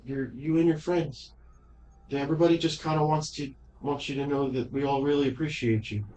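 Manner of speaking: put-on earnest little girl, quick at first. Ghost girl speaks for everyone.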